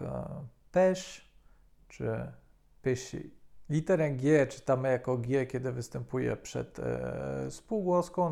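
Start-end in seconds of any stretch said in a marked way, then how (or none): 0.0-3.3 "pêche" with an open Ê, "péché" with closed É sounds; teacher contrasting accents; French pronunciation. Shown as a demonstration. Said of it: "tak jak w słowach".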